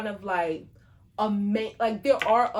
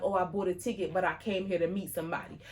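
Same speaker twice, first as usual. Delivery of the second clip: mock-timid, softer and hurried; 3 semitones lower, 6 dB quieter, faster than usual. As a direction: softly imitate a timid concertgoer. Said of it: "she was a little timid".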